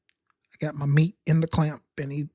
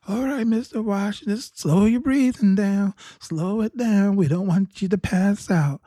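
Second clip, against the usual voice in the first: lightly voiced nurse, pitched higher, coaxing; imitating nurse; 5 semitones higher than usual. Nurse urging slow breathing.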